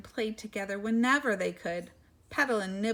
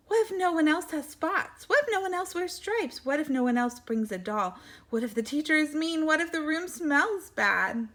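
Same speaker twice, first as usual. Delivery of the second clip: anxious questions; 4 semitones higher than usual. Acted.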